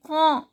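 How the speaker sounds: quand said "kon" with no D; silent D demo. Shown as a demonstration. Teacher shows learners a silent letter, demonstrated French pronunciation. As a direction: say quand ending on a nasal "on". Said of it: "D is silent".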